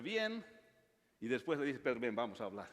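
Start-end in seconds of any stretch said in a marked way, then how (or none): 1.8-2.7 lower, changed voice for Jesus inviting Pedro; the risen Lord to Pedro, a lower, changed voice; gentle Jesus voice. Acted. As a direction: sound like the Lord calling a friend aside. Jesus calls Peter to talk.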